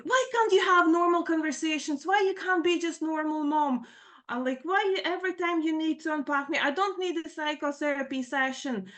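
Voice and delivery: high-pitched exasperated complaint; retold daughter's angry pleading; anger coming out. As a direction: imitate a fed-up daughter protesting. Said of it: "I can see that anger is coming out".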